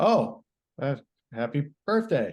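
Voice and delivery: insincere, fake-nice, sarcastic sing-song voice. Describing handing over an id, the speaker is imitating a sarcastic cashier. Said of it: "very kind of sarcastically".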